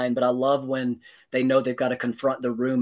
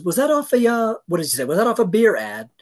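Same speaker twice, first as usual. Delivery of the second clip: mock curious question; 7 semitones higher, 5 dB louder than usual. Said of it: "and she says".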